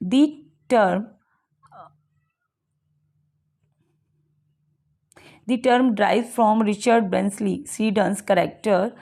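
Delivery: slow, deliberate reading from the book; slow reading aloud. Acted. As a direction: read it out word by word for the class. Reads English textbook lines slowly. (किताब से धीरे-धीरे पढ़ना)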